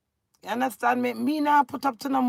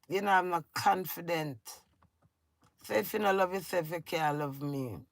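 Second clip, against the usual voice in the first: hurt, subdued plea; 5 semitones lower, 8 dB quieter than usual. Real, not acted. Hurt closing plea to husband.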